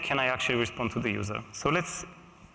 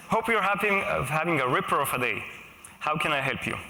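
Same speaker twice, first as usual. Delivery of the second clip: put-on lightly done Australian accent; mock Australian accent; 2 semitones higher than usual. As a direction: ham up a friendly Australian helper. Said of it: "I don't have Aussie accent".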